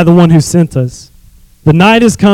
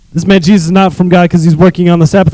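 mocking Pharisees; faster than usual. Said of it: "That sounds like a fun bunch".

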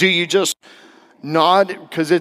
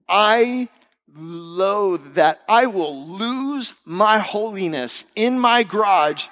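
slow, swooping higher emphasis; exasperated loathing; 5 semitones higher, much slower than usual. Real, not acted. Husband venting about garage interruptions, exasperated. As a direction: drag out the comic exasperation. Comic exasperation at unwanted advice.

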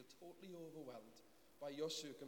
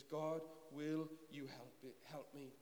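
heartfelt cry; slower than usual. Retold or imitated. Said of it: "He cries out from his heart".

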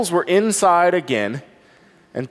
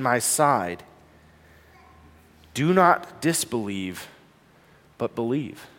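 tender Jesus; 5 semitones lower, 4 dB quieter than usual. Acted. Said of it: "the tenderness in Jesus".

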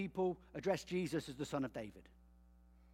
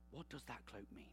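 "What does that cloak mean?" repeated much softer and lower; soft musing repeat; 6 semitones lower, 15 dB quieter than usual. Shown as a demonstration. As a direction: let the question sink in, quietly. Rhetorical question repeated quietly.

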